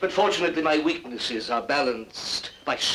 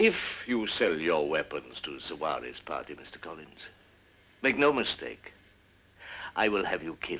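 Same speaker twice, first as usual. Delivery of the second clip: plain, prosaic, matter-of-fact, undramatic threatening tone; 8 semitones lower, 5 dB quieter than usual. Issuing a threat after being urged to say it: prosaic, matter-of-fact threat. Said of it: "that didn't sound in the least melodramatic".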